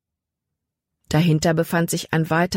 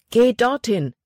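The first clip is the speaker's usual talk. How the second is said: urgent call; 7 semitones higher, 3 dB louder than usual. Acted. Jordan points out the stones.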